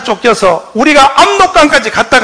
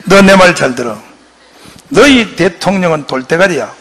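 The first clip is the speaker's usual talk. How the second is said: scolding roar; 6 semitones lower than usual. Retold or imitated. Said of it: "하고 호통을 쳐요".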